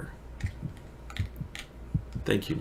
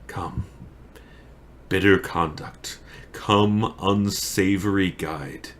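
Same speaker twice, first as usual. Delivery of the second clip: slow, solemn tragic verse; weighty pauses, rousing briefly for the last voyage; Romeo; 2 semitones higher, slower than usual. Acted. Romeo summons death as guide, grave and deliberate.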